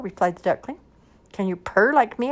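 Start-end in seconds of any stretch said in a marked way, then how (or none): 1.3-2.3 high, loud cat voice; high-pitched boastful cat; questioning cat. A narrator's reading. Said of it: "asked the cat".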